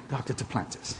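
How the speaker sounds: soft, low, awed repeat of the name; hushed. Retold or imitated. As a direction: say it again, barely above a breath. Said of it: "they get real quiet".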